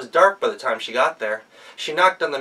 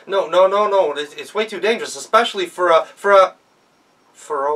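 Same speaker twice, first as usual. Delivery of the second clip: louder, higher, rushed alarm; flustered protest; 6 semitones higher, 5 dB louder than usual. Acted. Miller frantically warns her it's too dangerous. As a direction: panic and trail off.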